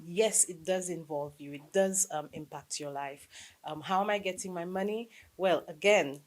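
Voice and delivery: ordinary talk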